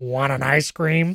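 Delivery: slow, gross, leering, creepy monster voice. Describing a scary-looking character's line in a basement setting, gross voice. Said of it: "Like just like in this gross voice".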